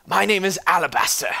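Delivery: high, prissy introduction; put-on voice of a prissy duke; fancy prissy duke. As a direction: announce yourself as a fancy little lord. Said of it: "weird little fancy prissy people".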